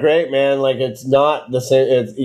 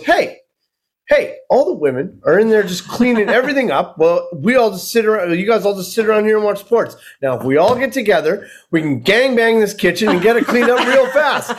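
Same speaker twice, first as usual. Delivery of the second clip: higher, pumped-up bro pitch; a young husband rallying the room, higher and eager; mock eager young guy; 5 semitones higher than usual. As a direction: hype the guys up like a coach.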